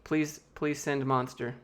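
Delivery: slow, pleading "please, please"; mock begging. Streamer begging viewers for Monster, slow mock plea. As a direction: ham up a plea for free drinks. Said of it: "I'm gonna beg".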